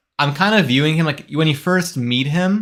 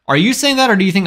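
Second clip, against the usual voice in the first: surprised; 5 semitones higher, 3 dB louder, much faster than usual. Real, not acted. Reacts to a chat remark.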